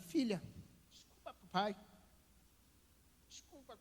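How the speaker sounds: acted, crying, breathy, near-whispered voice. Retelling apologizing to his daughter for a broken promise, retelling own crying apology. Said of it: "comecei a chorar".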